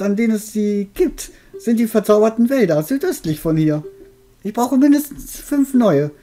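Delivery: put-on high, cackling old witch. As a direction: play the friendly old witch. Witch continues talking.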